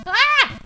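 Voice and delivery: short, loud, high yelp; sudden high-pitched cry of alarm; startled yell. Real, not acted. Streamer trying not to fall, startled yell.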